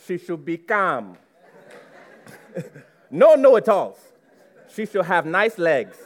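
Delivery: lightly voiced Nigerian mom; mock-stern motherly advice; mother's voice. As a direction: imitate a mother firmly listing her demands. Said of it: "I'm gonna say it to you as I heard it".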